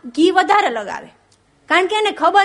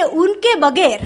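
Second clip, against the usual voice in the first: poetry recital. Shown as a demonstration. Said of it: "Anwar Masood બહુ સરસ પંક્તિ લખી".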